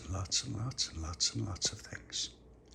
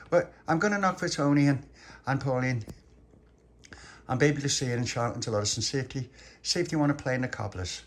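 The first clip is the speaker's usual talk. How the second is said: put-on higher little-boy voice; eager little boy; 4 semitones higher, 4 dB louder than usual. Little pappy telling mum his plans, eager little boy. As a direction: rattle off friends' names as an eager child.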